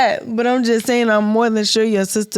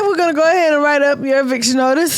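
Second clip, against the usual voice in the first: quick, pitched-up official reply; mock bank clerk; 5 semitones higher, faster than usual. Bank worker answering mortgage refusal, quick mock-helpful voice. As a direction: rattle it off like an obliging clerk.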